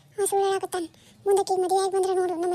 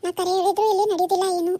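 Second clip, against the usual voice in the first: put-on tearful complaint. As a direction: complain as if crying for show. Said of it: "ಅಳು ನಾಟಕ ಮಾಡ್ಬೇಡ". (ಅಳುವ ನಾಟಕದ ದೂರು)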